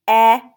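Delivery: F-E-F-E-R as isolated speech sounds with gaps; tapped sound by sound. Shown as a demonstration. Teacher tapping out feather, F-E-F-E-R sound by sound. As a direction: sound out F-E-F-E-R piece by piece, loud vowel. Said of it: "Let's tap it".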